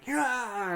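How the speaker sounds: high, drawn-out cry; imitated yell without much volume; mock battle cry. Imitating Magenta ripping Gerda apart, mock battle cry.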